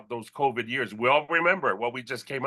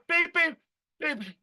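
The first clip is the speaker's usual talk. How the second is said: heart monitor beeps; 11 semitones higher than usual. Retold or imitated. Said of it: "I'm using this heart analogy".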